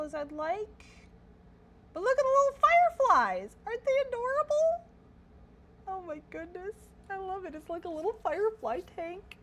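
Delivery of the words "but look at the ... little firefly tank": very high, loud squealing delight; excited squeal. Real, not acted. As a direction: gush over something adorable. Gushing over adorable fireflies.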